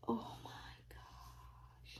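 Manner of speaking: drawn-out whispered wonder; hushed slow amazement; slow awed whisper. Real, not acted. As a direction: let it fade to a whisper. Overwhelmed by the doll.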